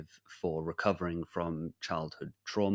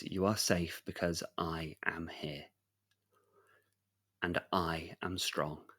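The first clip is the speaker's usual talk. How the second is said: reassuring whisper. Acted. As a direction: whisper it so the child calms. Knight reassures frightened child.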